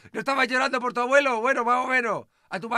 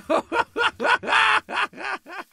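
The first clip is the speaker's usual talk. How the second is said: loud laugh; 10 semitones higher, 4 dB louder than usual. Real, not acted. Laughs at grieving friend.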